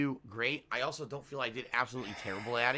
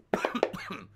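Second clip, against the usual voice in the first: coughing; 6 semitones higher than usual. Real, not acted. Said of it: "Sorry, I'm choking now".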